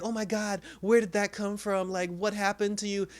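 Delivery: high, alarmed mock panic; imitating a girlfriend's startled panic; freaking out. Imitating the girlfriend seeing Ryan's wound, in mock panic. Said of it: "she starts freaking out".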